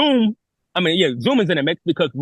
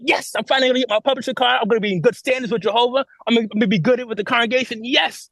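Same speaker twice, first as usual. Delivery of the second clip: higher, eager, a little rushed; naive excitement; 6 semitones higher than usual. Retold or imitated. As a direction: replay your younger self's giddy hope. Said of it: "I'm all naive and excited".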